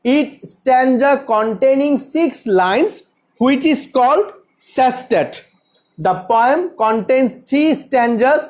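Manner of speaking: slow, measured dictation with pauses; teacher's careful, spaced-out reading; dictating an answer. Shown as a demonstration. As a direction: dictate phrase by phrase for students to follow.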